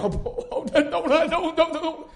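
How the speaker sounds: laughing through the words; embarrassed kid laughing, don't. Retold or imitated. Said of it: "Blake probably".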